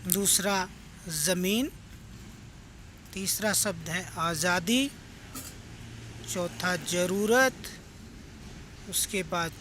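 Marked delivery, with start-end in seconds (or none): 0.1-1.7 ज़मीन said slowly with a clear z; careful nukta z. Shown as a demonstration. Teacher reading ज़मीन slowly so the class hears the z. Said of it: "इन शब्दों में ज़ पर गौर कीजिए". 6.3-7.8 ज़रूरत said slowly with a clear z; slow down and buzz the z in ज़रूरत; careful nukta z. Shown as a demonstration. Teacher reading ज़रूरत slowly for the class. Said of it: "इन शब्दों में ज़ पर गौर कीजिए".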